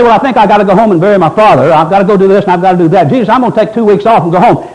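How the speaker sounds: quick run of mock excuses; hurried imitation of someone begging off; rattled-off excuses. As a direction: reel off excuses like a busy shirker. Voices excuse-making disciples.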